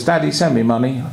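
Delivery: mildly demanding, brisk request; aggressive demand. Acted. Son's letter to his father, mildly demanding. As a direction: ask for money matter-of-factly, as a demand. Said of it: "you've read it in the wrong tune".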